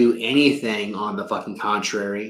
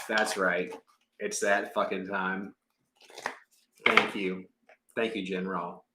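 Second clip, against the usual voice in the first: much softer, lower murmured asides; softly talking to the cards; quiet aside; 4 semitones lower, 8 dB quieter than usual. Real, not acted. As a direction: drop to yourself. Drops into soft aside.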